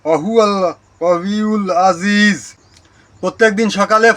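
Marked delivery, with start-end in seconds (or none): 0.0-2.5 quranic recitation. Shown as a demonstration. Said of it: "আয়াতটি হচ্ছে".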